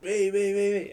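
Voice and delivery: high, quick mock clamour; eager volunteers. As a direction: imitate kids begging to be picked. Pupils all volunteering, retold.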